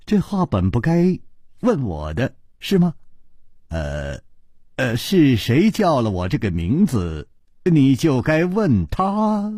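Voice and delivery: awkward, halting with nervous chuckle; embarrassed, hesitant evasion; helpless wry smile. Acted. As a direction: stall with little ers and pauses. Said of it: "楚留香无可奈何的一笑说".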